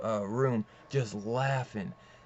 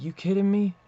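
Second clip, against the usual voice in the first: high, loud incredulous retort; retold disbelief; 8 semitones higher, 7 dB louder than usual. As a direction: throw it back, pitched up and loud. Retold captive answering interrogation in disbelief.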